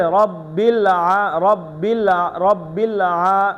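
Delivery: রব্বিল আ- cut apart from আলামিন; broken রব্বিল. Shown as a demonstration. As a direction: stop after রব্বিল আ- wrongly. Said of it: "হবে?". (ভুল: রব্বিল আ- ভেঙে বলা)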